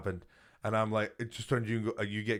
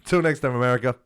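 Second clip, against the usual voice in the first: lightly hammed presidential closing line; a hint of a president ending a speech; mock president sign-off; 5 dB louder, faster than usual.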